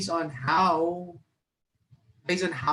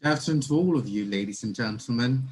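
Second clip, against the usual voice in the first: practiced British accent, a bit clumsy; 4 semitones lower, faster than usual. Shown as a demonstration. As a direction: try out a light British accent. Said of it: "Just practicing my British accent".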